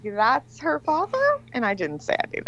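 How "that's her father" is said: slow and higher, a double take; shocked question. Retold or imitated. Realizing the girl's father is her ex, slow disbelief. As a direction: let the shock stretch the words. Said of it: "And I was like".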